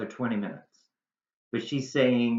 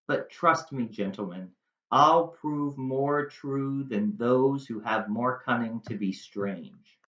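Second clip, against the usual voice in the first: Shakespeare recitation. Acted. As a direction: speak as Juliet confessing her love. Reciting Juliet's Shakespeare lines.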